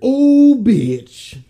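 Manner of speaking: sudden high, loud outcry; shocked. Real, not acted. Cohost hearing about the interview, shocked outcry. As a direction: gasp of disbelief at the question.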